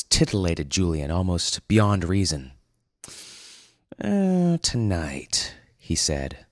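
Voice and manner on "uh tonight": drawn-out "Uh", then "tonight" held back; teasing dramatic pause on "tonight". Acted. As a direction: pause for suspense after "tonight". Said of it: "pausing dramatically".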